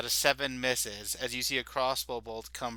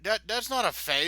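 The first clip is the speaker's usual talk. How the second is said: guard voice; 11 semitones higher, 6 dB louder than usual. Acted. Another guard answers.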